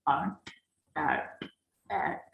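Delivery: Are said as one short syllable, with no t at the end; native are. Shown as a demonstration. Teacher drills Are the native-speaker way for students. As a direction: model Are the native way, clipped. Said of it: "native speaker bilang itu are".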